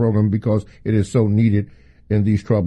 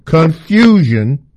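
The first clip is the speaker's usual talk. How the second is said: "confusion" stretched out, higher and firm; stress on confusion; 4 semitones higher, 4 dB louder, slower than usual. Real, not acted. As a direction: hit "confusion" slowly, like a word in capitals. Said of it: "in capital letters".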